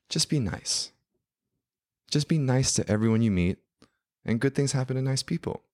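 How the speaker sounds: high, sweet British fairy godmother; nice fairy godmother. Retold or imitated. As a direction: gently advise like a kindly godmother. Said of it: "really nice, like, fairy godmother energy".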